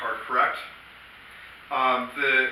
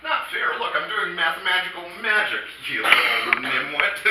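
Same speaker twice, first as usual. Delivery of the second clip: mock indignant; 3 semitones higher than usual. Mock retort to heckler.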